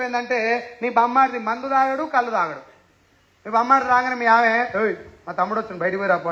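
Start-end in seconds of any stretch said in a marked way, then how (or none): 4.8-6.3 low, subdued imitation of a wife; toned-down mock order, softer and lower; understated wife's order. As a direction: play the wife's brush-off quietly. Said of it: "కానీ నేను మామూలుగా అన్నా".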